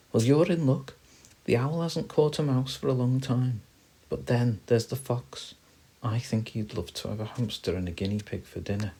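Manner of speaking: high squirrel voice; chatty squirrel. Acted. Squirrel telling friends about owl and fox, high-voiced.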